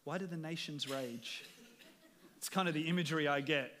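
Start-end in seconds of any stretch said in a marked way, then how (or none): 0.0-1.4 quieter, chuckling at the nations; a god laughing at an anthill; amused God voice. Retold or imitated. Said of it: "God looking down on an anthill".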